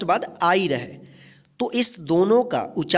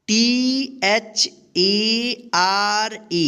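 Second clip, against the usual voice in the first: slow spelling; slower than usual. Shown as a demonstration. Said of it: "इसको क्या पढ़ेंगे?".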